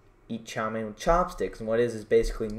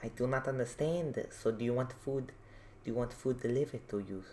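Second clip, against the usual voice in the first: confused hotel clerk; 9 dB quieter than usual. Retold or imitated. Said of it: "She was".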